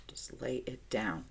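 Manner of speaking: unvoiced murmur, coaxing Fran to lie down; hushed whisper. Real, not acted. Coaxing Fran to lie down, whispered gently. Softly telling Fran to settle.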